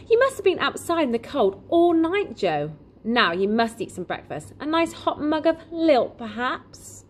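high-pitched, lilting offer of breakfast; fussing, kindly shopkeeper. Acted. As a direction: fuss over him like a concerned host.

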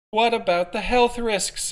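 high, loud and slow call from the crowd; shouted. Acted. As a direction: shout it across the square. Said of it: "another voice shouted".

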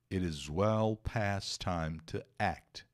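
slow, careful English read-aloud; measured teacher reading; slow model reading. Shown as a demonstration. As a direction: read it slowly for the class. Teacher reads English text slowly.

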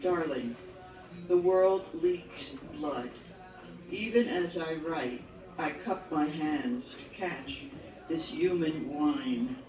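measured poetry recital, each phrase set apart by pauses; solemn poem read aloud to an audience. Acted. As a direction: read it as verse, line by line, each ending falling. Reads own poem aloud.

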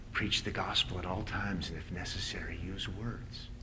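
unvoiced whisper on "and if necessary, use words"; mock whisper. Preacher mocking a slogan to his congregation, in a whisper. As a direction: breathe the punchline like a secret.

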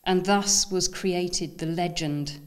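measured, incantatory poem recital with pauses between phrases; lifted, deliberate poetry-reading voice. Acted. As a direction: read it like a solemn founding legend, phrase by phrase. Reads own poem aloud to an audience.

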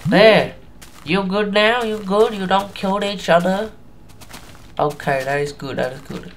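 lightly faked Asian accent; fail Asian accent. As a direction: settle a quarrel in a clumsy mock Asian accent. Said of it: "Enough of my fail Asian accent".

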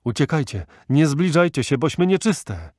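loud, high desperate warning; agonised shout rising in pitch; dreadful anguished cry. A narrator's reading. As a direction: cry out to keep them away. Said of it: "głos najstraszliwszy".

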